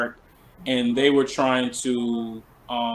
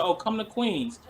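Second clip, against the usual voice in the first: higher-pitched retold invitation; casual invitation; 7 semitones higher than usual. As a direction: imitate a friend's offhand invite. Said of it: "she said it like that".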